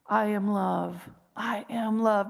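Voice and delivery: slow, sincere affirmation. Shown as a demonstration. Speaker leading listeners in self-affirmation, slow and sincere. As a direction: let each word land slowly. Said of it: "and say".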